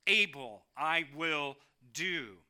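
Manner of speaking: slow, firm and sure; voice of God. Acted. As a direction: declare it with calm certainty. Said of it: "God who simply says".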